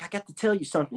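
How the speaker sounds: quiet, shy and hesitant; a shy girlfriend confessing softly; weird and shy. Retold or imitated. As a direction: mumble it like a nervous secret. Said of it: "She was weird and shy".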